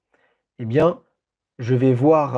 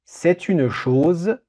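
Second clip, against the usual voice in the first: dictating slowly; 3 semitones higher, slower than usual. Shown as a demonstration. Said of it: "Je répète cette phrase".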